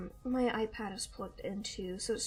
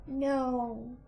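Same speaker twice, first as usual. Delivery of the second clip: short, firm pet correction; firm scolding; 3 dB louder than usual. Real, not acted. Owner correcting a climbing kitten, firm scolding. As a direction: tell the kitten off.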